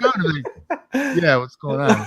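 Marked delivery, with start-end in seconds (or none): 1.2-2.0 mock Big Show greeting. Pretending to be Big Show to a fan online. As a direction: ham up the wrestler's hello.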